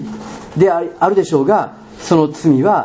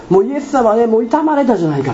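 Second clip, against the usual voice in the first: raised, high pleading protest; retold pleading yell; 6 semitones higher than usual. Dreamer begging the stranger to spare Jesus, raised pleading cry. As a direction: plead for him to stop, voice up. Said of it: "ものすごく叫んで".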